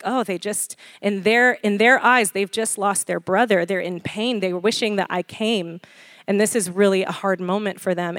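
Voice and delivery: soft, quiet, feeling their pain; tender empathy. Pretend. Jesus feeling the mourners' pain, soft and tender. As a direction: gently take in their grief. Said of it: "He's like".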